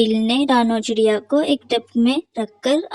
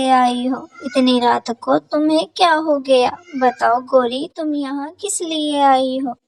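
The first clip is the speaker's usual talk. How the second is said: a sparrow greeting a late visitor; lightly voiced bird; 2 semitones higher than usual. Sparrows talk at the door. (हल्की ऊँची चिड़िया की आवाज़)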